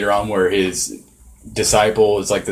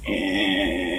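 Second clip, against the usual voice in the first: drawn-out creaking noise; imitated chair creak; 6 dB quieter than usual. Podcaster mocking the creaky chair on the recording, drawn-out creak. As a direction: mimic a long creak on the recording. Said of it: "the whole podcast is like".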